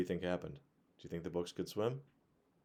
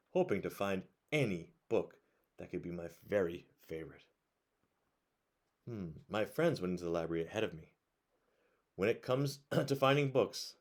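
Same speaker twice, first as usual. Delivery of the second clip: put-on bright, lively read-aloud voice for kids; reading a picture book to children at bedtime; storybook narration; 4 dB louder than usual.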